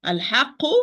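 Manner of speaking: "Al-haqqu" with no hold on the qq; overlooked first qaf. Shown as a demonstration. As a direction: skim past the first q in "Al-haqqu". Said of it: "you overlook this qaf".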